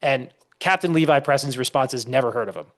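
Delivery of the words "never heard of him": a put-on farmer voice, louder and higher on the list; imitating an old Minuteman scoffing at Locke; blunt old farmer. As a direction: shrug off the philosophers like a plain country man. Retold farmer's blunt answer.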